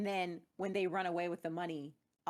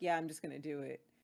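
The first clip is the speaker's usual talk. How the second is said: put-on deep voice, pitched lower; 3 semitones lower than usual. Speaker quotes a woman who ignored a repeated warning, mimicking her deep voice. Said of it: "With her deep ass voice".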